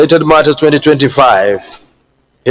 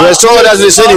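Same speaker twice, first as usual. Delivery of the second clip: high raised command; shouting order order; 5 semitones higher, much faster than usual. Real, not acted. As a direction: demand order over the noise. Chair calls for order.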